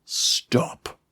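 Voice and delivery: big bellowed command; booming, drawn-out creature roar of a word; deep bellowing shout. A narrator's reading. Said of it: "a deep, bellowing voice shouted".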